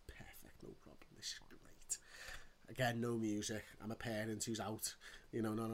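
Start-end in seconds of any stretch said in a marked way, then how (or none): 0.1-2.0 mock contentment. Mock-cheerful inner thoughts in queue.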